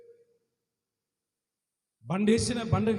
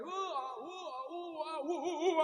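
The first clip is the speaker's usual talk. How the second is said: drunk's mock groaning; 7 semitones higher, 4 dB quieter, much slower than usual. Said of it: "అన్నాడు".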